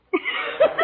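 high delighted giggle; gleeful laugh. Real, not acted. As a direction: laugh with glee. McGee delighted, finished the tree.

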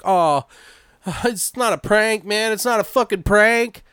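high-pitched, desperate insisting; mock-frantic plea to be believed; frantic caller. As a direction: act out a panicked caller, voice pushed up high. Retells frantic caller insisting it's real.

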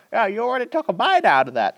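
high, quick, exasperated retort in a retold scene; mock complaint. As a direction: act out a squeaked, indignant objection. Acted complaint between film characters.

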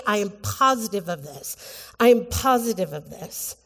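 POSITIVE stressed with certainty; emphatic certainty. Shown as a demonstration. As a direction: state "positive" as settled fact. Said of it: "with this sense of".

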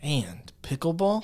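unvoiced questioning whisper. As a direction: breathe it as a hushed question. Echoing in mock whisper.

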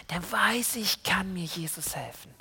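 breathy secret whisper; whispering Anna's trusting thought like a secret. Acted. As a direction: tell the kids Anna's hidden hope in a whisper.

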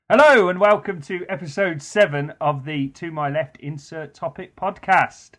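radio host intro, drawn out. Acted. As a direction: announce it like a radio DJ. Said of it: "I'm now using my new D J voice".

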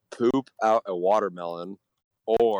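glitchy robotic call audio; robotic, choppy connection voice. Real, not acted. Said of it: "Your voice is, like, robotic".

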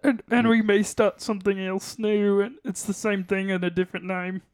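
plummy upper-class frog puppet voice; a frog puppet speaking like English gentry; posh Kermit voice. Pretend. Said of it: "are you doing a Kermit voice".

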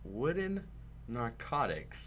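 high, slow disbelieving echo; incredulous. Real, not acted. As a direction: repeat it in disbelief. Echoing the odd phrase.

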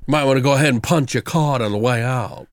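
a hint of a lazy Southern jokester; lightly voiced jokester. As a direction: toss off the line like the movie's jokester, lightly. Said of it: "his voice".

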